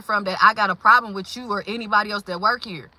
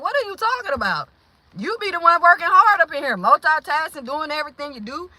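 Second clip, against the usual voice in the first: indignant retold defense; 5 semitones higher than usual.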